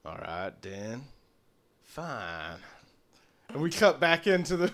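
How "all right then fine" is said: low, soft, curt and cold; shutting the conversation down; closed up. Acted. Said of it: "closing up, tightening up".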